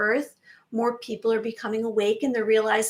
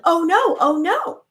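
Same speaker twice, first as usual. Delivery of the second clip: higher, louder mock panic; mock alarmed oh no; 6 semitones higher, 5 dB louder than usual. Mocking the fearful viewer, louder hammed-up oh no. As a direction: playfully imitate someone panicking. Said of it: "seeing this world that everything is terrible".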